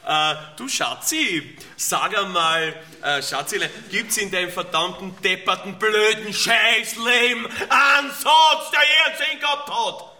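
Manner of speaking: sweet start that turns into a loud, slow shout; retold outburst. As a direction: start sweet, then explode at her. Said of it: "hab ich gesagt". (zur Frau: süß beginnend, dann lauter, langsamer Ausbruch)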